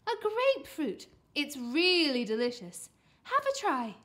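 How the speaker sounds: lightly voiced mum, loud and high; upbeat coaxing; encouraging mum. A narrator's reading. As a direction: sell it eagerly to a reluctant child. Mum urging son to taste.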